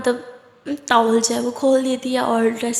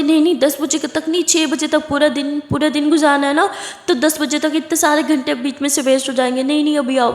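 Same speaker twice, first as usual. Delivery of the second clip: excited insisting; 4 semitones higher, 3 dB louder than usual. Acted. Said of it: "वो बोलती".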